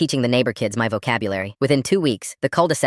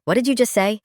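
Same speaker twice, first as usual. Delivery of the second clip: shocked mom; 10 semitones higher than usual. Retold or imitated. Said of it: "Mom goes".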